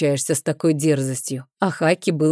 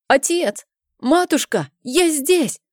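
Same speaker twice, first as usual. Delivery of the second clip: put-on boy calling out; 9 semitones higher than usual. A narrator's reading. Trapped boy calls parents.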